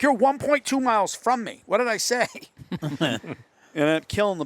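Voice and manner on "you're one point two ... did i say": mock exasperated shout. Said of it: "He's like".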